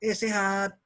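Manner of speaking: SEHAT said as a friendly, interested greeting; engaged little check-in; livelier intonation. Shown as a demonstration. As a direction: greet someone with life in sehat.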